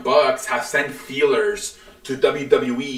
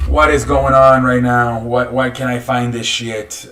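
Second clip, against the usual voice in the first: frustrated outburst; 5 dB louder than usual. Real, not acted. Frustrated at missing results.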